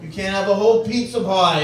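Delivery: lightly mocked lecturing tone; imitating a nagging lecture. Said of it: "she's lecturing me".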